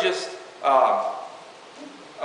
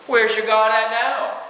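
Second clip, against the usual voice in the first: mild taunt; 4 semitones higher, 3 dB louder than usual. Retold or imitated. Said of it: "It's a taunting thing".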